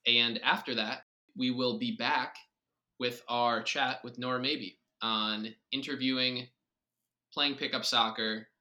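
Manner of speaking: bright segment intro; announcer voice. Acted. Podcast host announces sponsor segment.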